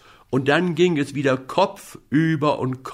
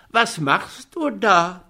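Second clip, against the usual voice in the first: calling up; 7 semitones higher, slower than usual. Acted. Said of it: "rief der kleine Häwelmann hinauf".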